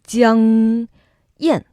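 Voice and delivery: "Jiang" with a nasal ng, "Yan" dropping. Shown as a demonstration. Teacher showing the nasal ending of Jiang. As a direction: let the ng ring through the nose. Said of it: "we're using a nose a little bit".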